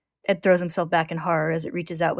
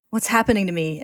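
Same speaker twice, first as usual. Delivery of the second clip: a touch of panic, pushed a bit louder; panicked; 2 semitones higher, 5 dB louder than usual. Acted. Ed falling into the darkness, mildly panicked. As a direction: ask it like you're falling into darkness.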